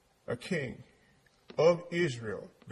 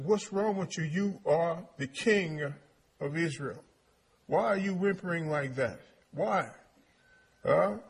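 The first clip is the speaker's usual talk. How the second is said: mildly exasperated wife, pitched up; scolding wife; 2 semitones higher than usual. Acted. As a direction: take the whimpering king to task. Wife scolding her whimpering husband.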